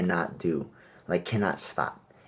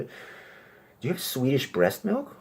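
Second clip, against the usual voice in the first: slow deadpan order; 7 semitones higher, much slower than usual. Retold or imitated. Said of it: "a waiter comes by".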